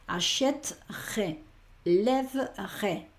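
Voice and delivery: ACHÈTERAI and LÈVERAI very slow, split before the final "rai"; silent e. Shown as a demonstration. Teacher showing where the E is not pronounced, slow syllable-by-syllable demo. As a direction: break "achèterai" as achèt-rai, "lèverai" as lèv-rai, middle e dropped. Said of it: "no se pronuncia".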